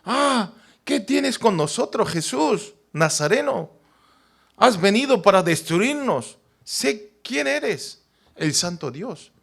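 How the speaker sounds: high, slow cry of the unclean spirit; a touch of a possessed man yelling; mild mock demon cry; demon shouting. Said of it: "Empezó a gritar como".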